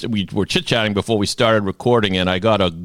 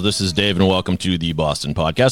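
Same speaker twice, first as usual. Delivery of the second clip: grand entrance announcement. Acted. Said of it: "the appropriate amount of fun, uh, fanfare".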